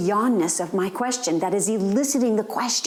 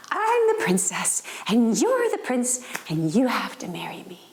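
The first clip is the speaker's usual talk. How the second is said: a four-year-old playing princess; little girl voice.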